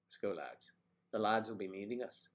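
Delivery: lightly put-on Irish lilt; Irish accent attempt. Shown as a demonstration. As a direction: try an Irish accent on lads. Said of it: "Ireland, I believe it's lads".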